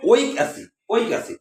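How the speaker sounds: teacher sounding out ওয়িক অ্যাসিড, falling on the repeat; pronunciation demo. Shown as a demonstration. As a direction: model ওয়িক অ্যাসিড twice, "o-ik" leading. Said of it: "এটা উচ্চারণ করব".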